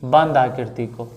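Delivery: बंद picked out with emphasis; stress on बंद. Shown as a demonstration. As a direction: lean on the word बंद. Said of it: "जोर देने के लिए बोल देते हैं".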